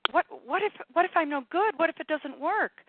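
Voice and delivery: high, loud worrier; fretting ego voice. Acted. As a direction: play a panicky string of self-doubts. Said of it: "so used to the mental".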